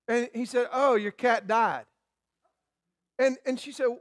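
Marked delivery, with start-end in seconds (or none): 0.7-1.8 casually blunt, falling away softly; matter-of-fact retold reply, softened in volume. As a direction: break bad news offhandedly, no cushioning. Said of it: "You never so blunt".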